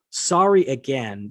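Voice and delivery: slow, half-hearted sorry read back; mock half-hearted apology. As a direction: read the apology out slowly, unconvinced. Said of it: "such a half-hearted apology".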